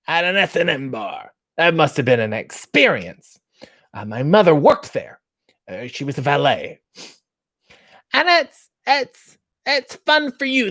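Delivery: lightly voiced fussy host; Jiminy Glick. Mocking David Arquette as Jiminy Glick, lightly voiced. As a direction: keep the mock interview going. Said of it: "in a Jiminy Glick voice".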